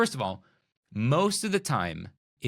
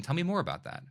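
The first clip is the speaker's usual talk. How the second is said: light, inviting question, rising on more; right inflection; 5 semitones higher, 3 dB quieter, faster than usual. Shown as a demonstration. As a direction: ask gently, like you truly want to hear. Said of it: "use it with the right inflection".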